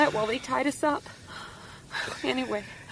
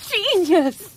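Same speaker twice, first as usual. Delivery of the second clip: higher, louder burst of admiration; excited praise; 4 semitones higher, 4 dB louder than usual. Acted. Tied-up woman hailing the scissors idea, excited. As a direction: exclaim it in sudden delight.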